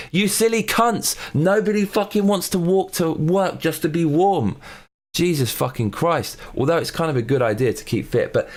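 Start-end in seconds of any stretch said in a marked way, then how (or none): 0.1-6.4 high-pitched, exasperated scolding; mock-outraged outburst at a higher pitch; exasperated rant. Ranting back at the article's advice.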